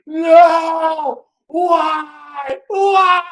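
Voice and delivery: high anguished wailing cries; anguished wailing crowd. Retold or imitated. Crowd in the dark, wailing cries. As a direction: cry out in despair. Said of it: "ten thousand voices".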